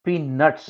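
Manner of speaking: पीनट्स said like the word peanuts; pronunciation demo. Shown as a demonstration. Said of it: "pronounced as peanuts". (पीनट्स को peanuts की तरह बोलना)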